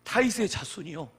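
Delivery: imitated loud appeal for mercy; crying out loudly. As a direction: call out as the blind beggar, half-acted. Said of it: "그래서 큰 소리로".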